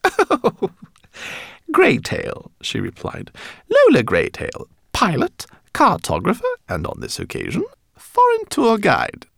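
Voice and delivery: very high chirpy rat voice; squeaky rat. A narrator's reading. Rat pilot meeting the professor, squeaky and eager. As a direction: greet him like an eager tiny fan.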